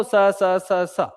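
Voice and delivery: every sibilant as the same स; casual identical स sounds, no distinction; undifferentiated everyday S. Shown as a demonstration. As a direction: repeat स as a plain "s". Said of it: "ऐसे बोलते हैं".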